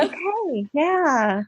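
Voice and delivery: high, choked-up recovery; tearful. Real, not acted. Guest collecting herself after crying, tearful. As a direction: pull yourself together through tears. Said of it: "I'm sorry, I'm crying".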